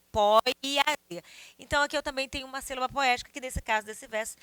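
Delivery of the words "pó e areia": "Pó e areia" in one breath as pó-iareia; run together. Shown as a demonstration. Teacher repeating the join, "Pó e areia" linked as pó-iareia. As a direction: say "Pó e areia" loudly with e melted into a. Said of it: "Como se fosse assim".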